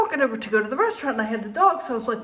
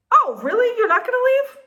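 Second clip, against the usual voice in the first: sarcastic challenge; 11 semitones higher, 4 dB louder than usual. Retold or imitated. Retold confrontation with the teenagers.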